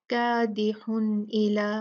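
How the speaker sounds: कादिहुन इला, slow, न clear with no ghunna; clear noon. Shown as a demonstration. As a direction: recite कादिहुन इला with a clean न. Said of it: "नहीं पढ़ेंगे".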